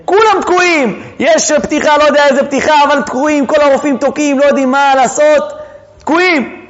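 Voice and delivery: high, sustained urgent narration; mock alarm. Doctors stuck in delivery room, retold in high mock alarm. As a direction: pitch it up like a room in crisis.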